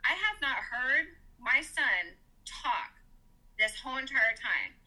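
measured, deliberate retort with restrained anger; firm telling-off. Retold or imitated. Mother tells off the doctor about her son, firm. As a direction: lay it down word by word, without raising the voice. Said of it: "I said it exactly like that".

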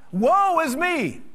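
high, loud, slow anguished cry of woe; yelled out. Retold or imitated. A worshipper crying out mid-service, high slow and loud. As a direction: cry it out as if struck in the middle of a service. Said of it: "somebody yells out".

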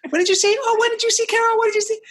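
hammed-up needling questions; pushy talk show host pestering the guest; nagging host voice. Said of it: "So Chris Farley, like".

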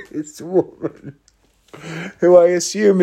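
breaking into real laughter mid-story; laughing. Real, not acted. Cracks up describing the woman.

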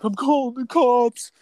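very high, slow whine; mock boss threat. Boss telling the worker he's calling police, whiny. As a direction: imitate the boss's whiny threat.

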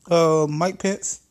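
slow meek answer; timid Pence. Acted. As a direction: drag it out sheepishly.

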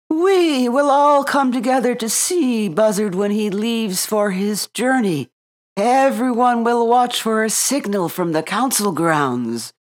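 owl voice. A narrator's reading. Owl announces the plan.

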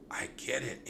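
a quiet dawning realization; whispered. A narrator's reading. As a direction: say it under your breath. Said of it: "Annie whispered".

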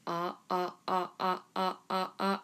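short ah sounds chopped by throat stops; guttural stops. Shown as a demonstration. Teacher showing students the throat vibrato, guttural ah stops. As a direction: chop each ah with the throat. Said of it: "it's kinda like you're saying".

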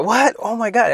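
high "What?" then stunned; shocked. Retold or imitated. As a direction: gasp at the news in disbelief. Kid sees ear bitten.

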